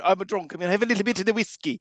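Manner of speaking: mock Irish drunk. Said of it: "big bumper book of Irish stereotypes".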